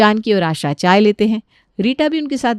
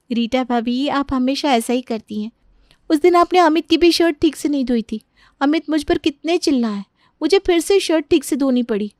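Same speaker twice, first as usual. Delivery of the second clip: higher-pitched, aggrieved voice; complaining sister-in-law; 6 semitones higher than usual. Acted. Sister-in-law reminding Rita of another badly washed shirt, aggrieved. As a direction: pile on the old grievance.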